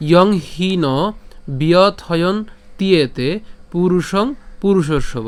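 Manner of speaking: slow, separated verse phrases; measured shloka recitation with pauses; line recitation. Shown as a demonstration. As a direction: recite the Sanskrit line for pupils to follow. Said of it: "লাইনটি যদি আরেকবার বলি".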